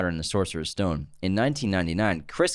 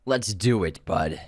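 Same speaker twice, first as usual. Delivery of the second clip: flat robotic delivery; much slower than usual. Real, not acted. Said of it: "why did I sound like a robot there".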